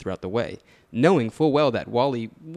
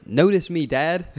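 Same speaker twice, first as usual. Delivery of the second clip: high, loud mock plea; mock shout; 8 semitones higher, 7 dB louder than usual. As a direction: shout it like a needy son. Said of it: "Lex Luthor's shout for".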